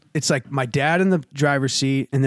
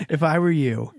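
dead serious; 3 semitones lower than usual. Retold or imitated. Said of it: "he's, like, dead serious".

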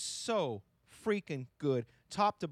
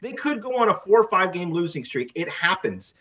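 excited; 11 dB louder than usual. Real, not acted. Louder excited stretch.

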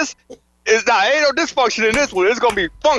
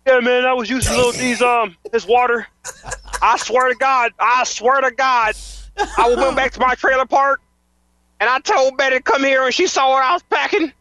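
hillbilly testimonial voice; 3 semitones higher than usual. Pretend. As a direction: pretend trailer-park caller. Fake live listener testimonial.

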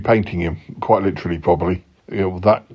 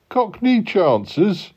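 indignant echo; 9 semitones higher, much slower than usual. Acted.

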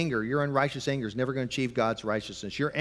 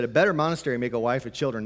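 quick quote; faster than usual. Retold or imitated. Preacher repeating Luther's line to parents, fast. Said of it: "He said".

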